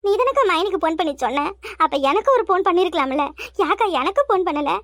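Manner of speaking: staged wronged weeping; put-on crying. Daughter-in-law asks sister-in-law what she did wrong, mock sobbing. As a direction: sob the question, drawing out the last word. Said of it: "எதுக்கு இப்ப சும்மா வந்தது வராதுமா அழுதுகிட்டு".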